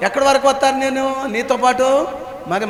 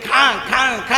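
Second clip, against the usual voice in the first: drawn-out mock barking; preacher's spoken dog-bark imitation; imitated dog bark; slower than usual. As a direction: bark like a dog going for a fight. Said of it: "కరిసే కుక్కట, దాని మీద ఎగబడే కుక్క".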